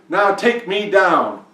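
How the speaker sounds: high, loud, drawn-out order; commanding king. A narrator's reading. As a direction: order them loudly, stretching the words. King orders swans to descend.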